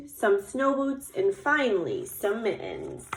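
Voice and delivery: put-on lively, measured read-aloud to children; story narration. A narrator's reading. Teacher reading about Little Bear getting dressed for snow, storytelling voice. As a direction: read it like a picture book, lingering on descriptions. Reads picture book aloud.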